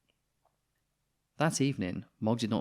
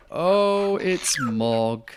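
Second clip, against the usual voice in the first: surprised vet; 6 semitones higher, 8 dB louder, much slower than usual. Acted. Vet recognises the troublesome cat.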